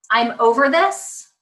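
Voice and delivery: slow, emphatic declaration; acted end-of-patience announcement; mock fed-up parent.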